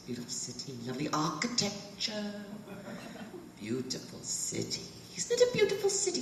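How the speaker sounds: imitating two old British men, polite British accent, laughter breaking through; a fond send-up of two old British tourists, cracking up; posh British accent. Quoting the British men at the back of the tour train, British accent with stifled laughter. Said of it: "They talk just like that".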